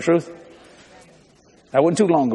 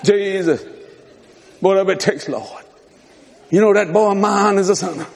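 mock stupid prayer. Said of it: "God has heard some stupid prayers".

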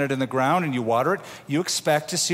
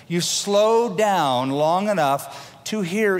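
slowed down; 4 semitones higher, slower than usual. Shown as a demonstration. Acting out slowing down.

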